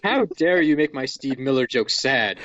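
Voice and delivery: mock outrage through laughter; laughing protest. Real, not acted. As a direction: scold while cracking up.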